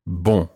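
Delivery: bon, nasal vowel, no N. Shown as a demonstration. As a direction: model bon for the class. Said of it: "when I say the word, you repeat after me".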